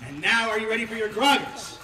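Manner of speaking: loud, excited call to the crowd; rallying shout. Real, not acted. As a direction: pump up the crowd. Rabbi rallies the crowd.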